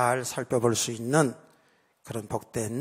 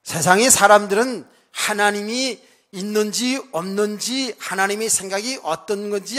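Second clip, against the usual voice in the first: raised, higher-pitched sermon delivery; emphatic preaching; 5 semitones higher, 7 dB louder than usual. Real, not acted. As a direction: preach it out with force to the congregation.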